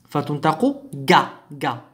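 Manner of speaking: جا with a hard g as in go; hard g demo. Shown as a demonstration. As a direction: clearly model جا with a hard g. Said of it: "se prononce ga". (نطق جا بجيم قاهرية واضحة)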